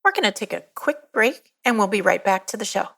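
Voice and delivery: measured, carefully enunciated sponsor read; polished announcement to listeners. Acted. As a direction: read it as a scripted podcast promo with clear phrase breaks. Scripted sponsor and donation read.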